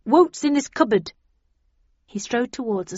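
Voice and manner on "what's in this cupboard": high, loud question; eager curiosity. A narrator's reading. Snell spotting the cupboard, loud high curiosity. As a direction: pipe up with sudden interest.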